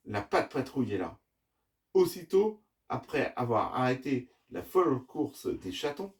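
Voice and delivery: put-on measured children's storytelling with lively phrasing; story narration. A narrator's reading. Dad reading the adventure to his children, story narration. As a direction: tell the tale, pausing between phrases.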